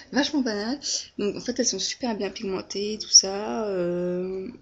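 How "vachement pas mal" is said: Vachement pas mal echoed higher and louder, teasing herself; amused self-mockery. Shown as a demonstration. Laughing at her own phrase to viewers, mock echo. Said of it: "Ça veut rien dire ce que je viens de dire".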